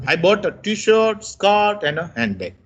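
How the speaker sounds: "t-shirt" held up, "handbag" dropping; rising-falling list. Shown as a demonstration. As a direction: stay up through the list, fall on "handbag". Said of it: "the list goes up".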